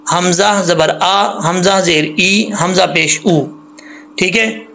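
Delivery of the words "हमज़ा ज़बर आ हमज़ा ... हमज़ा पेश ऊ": slow drill, आ, ई, ऊ with a firm glottal onset; firm hamza. Shown as a demonstration. Teacher showing the hamza sound, firm आ ई ऊ. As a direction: spell out slowly, hard hamza on आ, ई, ऊ. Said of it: "हमज़ा जो है वो सख्ती से पढ़ा जाता है".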